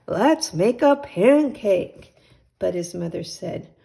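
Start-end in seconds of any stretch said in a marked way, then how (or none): 0.1-2.1 put-on eager boy. Jack eager for pancake.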